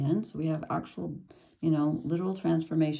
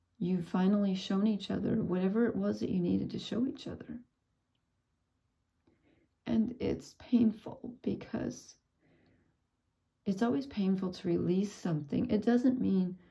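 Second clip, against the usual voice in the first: weeping, tearful voice, crying through the words; 3 semitones higher than usual. Telling someone a bond between them finally balanced, crying while speaking. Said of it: "I can't stop crying".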